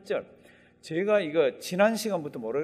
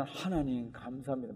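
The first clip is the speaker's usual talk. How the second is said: tearful thanks; 4 semitones lower, 6 dB quieter than usual. Retold or imitated. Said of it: "많이 울었을 거예요".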